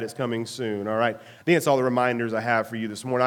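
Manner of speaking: stuffy nasal voice from a cold; speaking through a blocked nose. Real, not acted. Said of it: "my nasally voice this morning".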